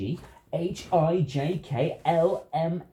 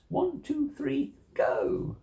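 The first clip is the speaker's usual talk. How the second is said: excited countdown; 12 semitones higher, much slower than usual. Acted. Countdown to release Voom.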